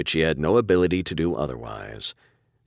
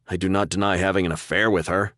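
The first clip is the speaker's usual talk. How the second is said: annoyed; 3 semitones higher than usual. Acted. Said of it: "annoyance in his tone".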